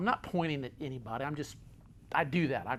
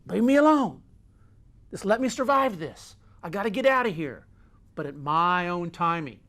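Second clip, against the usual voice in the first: raised, insistent acted protest; desperate outburst; 3 semitones higher, 7 dB louder than usual. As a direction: cry out from the foxhole, then ease off. Voices someone hiding in a foxhole.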